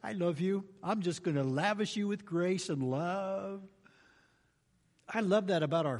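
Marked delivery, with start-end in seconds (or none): 0.0-3.6 tender loving voice. Pretend. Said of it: "God goes".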